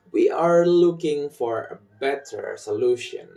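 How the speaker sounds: "looking", "better", "solution" given the beats; sentence rhythm. Shown as a demonstration. Teacher repeats for learners, rhythmic stress on "looking", "better", "solution". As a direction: drive the beat through "looking", "better", "solution". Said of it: "This rhythm pattern".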